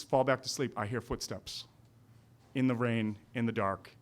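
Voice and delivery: ordinary talk, nothing marked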